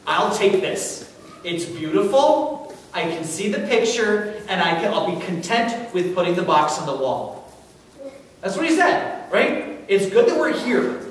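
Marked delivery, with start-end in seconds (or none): 0.1-7.5 content sigh. Retold or imitated. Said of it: "He says".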